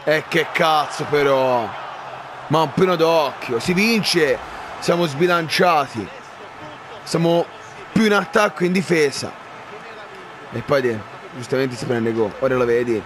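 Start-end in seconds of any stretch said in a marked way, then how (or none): 0.0-9.3 frustrated shout. Real, not acted. Frustrated at defending.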